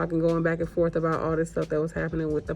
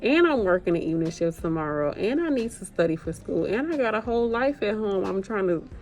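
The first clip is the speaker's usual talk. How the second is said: venting anger; 4 semitones higher than usual. Real, not acted. To the absent staffing coordinator, fed-up rising rant. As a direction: let the frustration boil over until you're shouting. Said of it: "Let me calm down".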